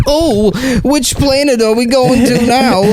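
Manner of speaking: high, slow, whiny fussy accountant; Jewish accountant voice. Retold or imitated. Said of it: "like, a Jewish accountant character".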